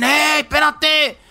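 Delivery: calling out. Retold or imitated.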